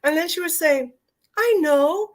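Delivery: grandma's gentle words through held-back tears; tearful. Real, not acted. Voicing grandma tenderly, tearing up at the memory. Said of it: "I kinda feel like I'm gonna cry".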